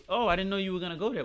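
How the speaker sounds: feigned surprise, pitched a little up; passive-aggressive jab. Acted. Girlfriend jabbing at her man's plans, passive-aggressive. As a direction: play innocent with a small dig. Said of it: "Why are you saying it like that?".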